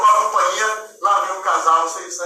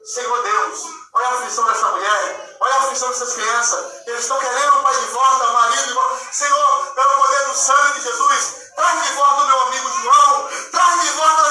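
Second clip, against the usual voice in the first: pleading prayer; 3 semitones higher than usual. Retold or imitated. Friend's prayer voiced.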